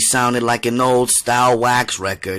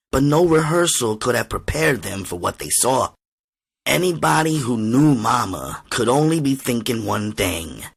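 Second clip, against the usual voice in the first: ordinary delivery, nothing marked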